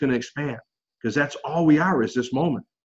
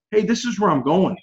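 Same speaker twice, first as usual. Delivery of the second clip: calm confident; 5 semitones higher than usual. Shown as a demonstration. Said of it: "but read it like".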